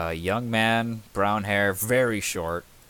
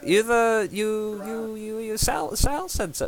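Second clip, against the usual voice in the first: slow, much higher stammering; excited stammer; slower than usual. Acted. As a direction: trip over the words in excitement. Smith stammers excitedly about Sal.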